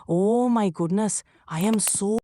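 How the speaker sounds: put-on apologetic Chinese-accented English. Someone who bumped into somebody, apologetic Chinese accent. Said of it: "the impression with a Chinese accent".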